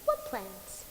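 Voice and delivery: very low, hushed question; low wary question. Acted. Death questioning the visitor's plans, low and quiet. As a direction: ask it low and soft.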